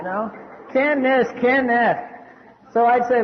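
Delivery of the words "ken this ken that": lightly mocking wimp's complaint; whining wimp. Wimps pestering their sponsor, mildly whiny. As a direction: mimic a needy caller a little.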